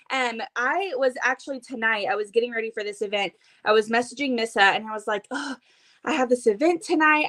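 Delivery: breathless after running upstairs; out of breath. Real, not acted. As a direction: talk while out of breath. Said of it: "And I'm extremely out of breath right now".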